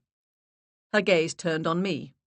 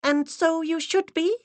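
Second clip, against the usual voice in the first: high, solemn intoning voice; intoning assistant; 13 semitones higher, 3 dB louder than usual. Acted. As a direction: intone it like a stern medium's aide. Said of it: "the assistant intoned".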